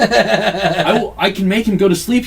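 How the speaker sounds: talking through laughter; words bubbling with laughs; laughing. Real, not acted. Retelling while laughing.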